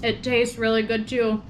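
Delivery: talking while chewing; words round a mouthful of food; mouth full. Real, not acted. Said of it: "Sorry, I'm talking with my mouth full".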